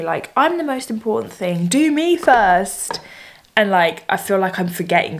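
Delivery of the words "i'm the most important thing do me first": mock yell of inner voices; mock yelling brain voices. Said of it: "a hundred voices screaming at me".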